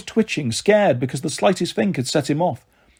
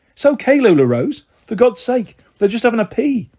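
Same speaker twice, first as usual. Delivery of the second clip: raised voice calling through a door; shouting through the door; 6 semitones higher, 3 dB louder than usual. A narrator's reading. Mum calls through the toilet door, raised and urgent. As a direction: call out loud so they hear inside. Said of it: "she shouted through the door".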